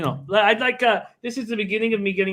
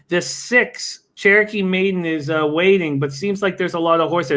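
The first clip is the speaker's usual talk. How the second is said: race call. Acted.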